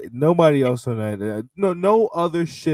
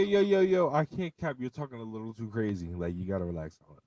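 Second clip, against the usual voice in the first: teasing, fading soft; 9 dB quieter than usual. Real, not acted.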